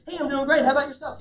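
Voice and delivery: match their big energy; belted out. Shown as a demonstration. Answering a booming client with the same energy, belted out. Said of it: "belt it out and say".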